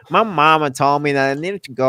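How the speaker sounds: lightly forced fake southern accent; terrible southern accent. Mocking the actress's southern accent, badly forced. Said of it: "her southern accent is terrible".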